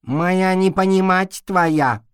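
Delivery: high, slow mocking broken speech; mocking imitation. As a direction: mimic his broken speech. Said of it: "передразнил его кот".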